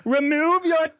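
put-on slow, high, grand British baby; British-accented baby. Baby demanding to be fed, high slow British accent. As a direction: demand it pompously in squeaky British. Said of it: "busted out with this British accent".

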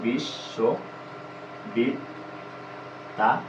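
very slow, drawn out, sounding out বিশ্ববিদ্যালয়; slow spelled-out demo. Shown as a demonstration. Teacher shows students the old way, slow and drawn out. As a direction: spell বিশ্ববিদ্যালয় slowly as if writing it. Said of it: "এইভাবে লিখতাম".

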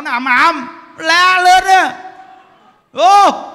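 loud, high yell with drawn-out words; booming, shouting preaching. Shown as a demonstration. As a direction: demonstrate a thunderous preaching style. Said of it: "cái tông giảng của Như Đức là sao?".

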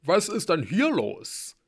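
slow, high, loud question; roused warrior. A narrator's reading. Halbgeboren storms out with axe, demanding loudly. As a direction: demand answers in a big voice.

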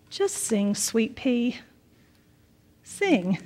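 soft, unhurried, gently reassuring; softly coax, pausing before the last word; quiet, calm voice of comfort; calm inner voice. Retold or imitated. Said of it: "I heard a calm, many-layered voice say".

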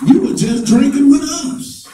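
sneering, loud, taunting; mock the newly righteous with scorn; mocking accusers. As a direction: throw their past back in their face. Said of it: "and they'll bring up stuff in front of you and say".

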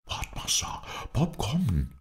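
whispered, lifting into soft high voice; hushed call from a hiding place; Bob. A narrator's reading. Bob whispers down from the tree to his master, hushed. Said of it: "flüsterte er von oben herab".

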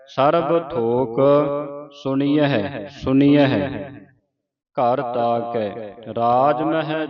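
measured reading with drawn-out line endings; scripture recitation. Shown as a demonstration. Teacher models Gurbani for learners, measured recitation. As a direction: recite sacred verse phrase by phrase.

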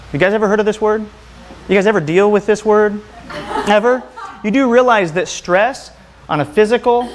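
chuckling through the question; laughing question. Real, not acted. Speaker laughs as he quizzes the crowd, laughing. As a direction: let a laugh run through the words. Laughing while asking audience.

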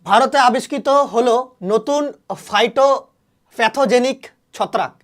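slow, spelled-out headline with ফাইটোপ্যাথোজেনিক drawn out very slowly; slow dictation. Shown as a demonstration. Teacher dictating an exam fact to students, slow and deliberate. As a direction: read it slowly so students can write it down. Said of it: "এটা পরীক্ষায় কিন্তু আসবে".

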